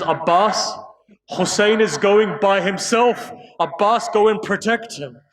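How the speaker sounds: panicked, high-pitched appeal; acted sister's rising panic; Zainab. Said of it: "Zainab begins to panic".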